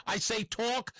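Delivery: "talk" drawn out slow with a New York open aw. Shown as a demonstration. Host demonstrating his New York accent, slow "talk". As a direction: say "talk" as New Yorkers do, "tawk". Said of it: "T A W K".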